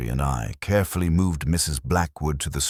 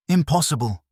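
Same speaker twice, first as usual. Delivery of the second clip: sharp, loud, much higher shout of denial; whip-crack outburst; 12 semitones higher, 5 dB louder than usual. A narrator's reading. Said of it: "The voice cracked like a whip".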